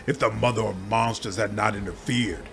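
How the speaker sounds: the swarm turning from cold to furious; rising swarm demon anger. Acted. Swarm demon furious at the similar one.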